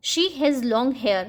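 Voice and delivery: very slow, word by word; slow, clear dictation pace; slow example read. Shown as a demonstration. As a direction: read it out slowly for children. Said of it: "जैसे".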